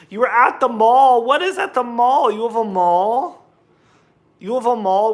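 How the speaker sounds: loud, high-pitched disbelief; incredulous. Real, not acted. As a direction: question it in amazed surprise. Amazed a viewer has a mall.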